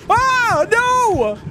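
high, loud panicked shriek. Real, not acted. Gamer killed by a bug, high panicked shriek. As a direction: shriek in alarm as you die. Game bug kills the player.

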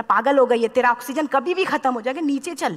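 sherpa scolding her to come down, mildly angry retold. Sherpa tells the climber she has gone mad, mild mock scolding. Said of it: "इतना तेज गुस्सा हुआ".

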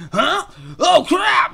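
high, loud squeaky alarm; startled squirrel. Acted. Squirrel hit by the haunting tune, startled squeal. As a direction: yelp it high in sudden dismay.

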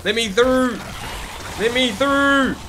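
high shouted demand; hyped gamer bro. Real, not acted. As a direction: shout it as you barge past. Pushing through enemies.

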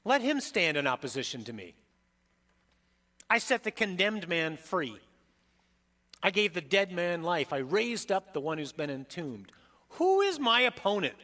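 proclaiming triumph as Christ; voicing Jesus. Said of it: "This is Jesus talking".

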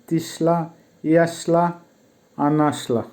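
তিশলা, ইয়াশলা, আনাশলা said carefully as shla endings; teacher models each word clearly; careful drill of the shla past forms; model pronunciation. Shown as a demonstration. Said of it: "উচ্চারণটা এরকম হবে".

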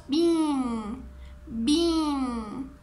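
"Bean" with a long held ee; repeat-after-me model. Shown as a demonstration. Teacher asking all to join, "Bean" drawn out. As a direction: stretch "Bean" out for children to echo. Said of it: "A ver, todos juntos".

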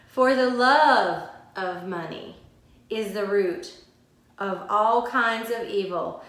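measured, deliberate verse reading; scripture reading. Acted. Teacher reading a Bible verse to listeners, deliberate scripture reading. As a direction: read the verse out with weight.

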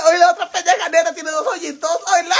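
high, loud squeal through laughter; cracking up. Real, not acted. Reacting to a viewer's joke, cracking up. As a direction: barely get it out before bursting out laughing.

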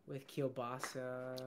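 kielbasa said slowly as kil-basa; kielbasa, with a hard k and a b; kielbasa pronunciation. Real, not acted. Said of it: "I always said kielbasa".

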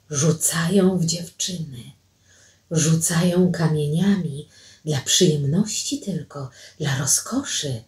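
soft, low, confiding voice; hushed explanation. Acted. Watchers speak of stones thrown at girls, hushed. Hushed talk after whispered question.

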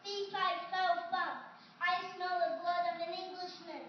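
slow, loud, heavy giant; a big giant booming each word slowly. Acted. Giant arrives hunting for Jack.

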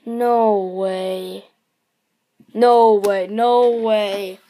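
excited. Real, not acted. Disbelief at the pull.

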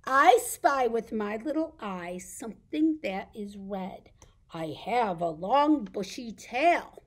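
loud, lilting picture-book reading; reading to children. Pretend. Reading an I spy riddle to toddlers, playful read-aloud. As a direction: bounce through the riddle for little listeners.

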